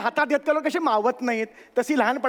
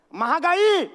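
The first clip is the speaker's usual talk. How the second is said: retold shout; 5 semitones higher, much slower than usual. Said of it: "असं ओरडली".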